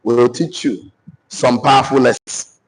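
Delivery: measured dictation in short phrases. Acted. Dictates notes to the audience.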